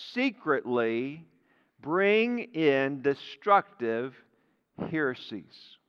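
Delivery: secretly said low and slow; stress on secretly. Shown as a demonstration. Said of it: "I just want to emphasize the word secretly".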